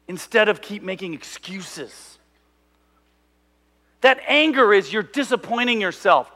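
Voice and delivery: loud fatherly lecture; retold firm talking-to; stern dad. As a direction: imitate a father setting his kid straight. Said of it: "my dad finally put it right".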